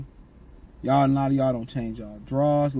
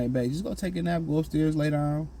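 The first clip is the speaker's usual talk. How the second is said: calm soothing; 4 dB quieter than usual. Shown as a demonstration. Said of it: "yelling and screaming".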